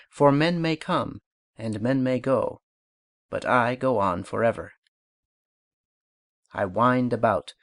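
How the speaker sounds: light, flowing, cheerful verse reading; joyous spirit recital; poem recitation. Shown as a demonstration. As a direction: let it babble along like a brook. Recites The Brook exercise.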